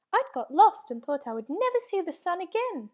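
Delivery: a tiny creature longing for company; lonely small creature. A narrator's reading. Small creature voiced in story.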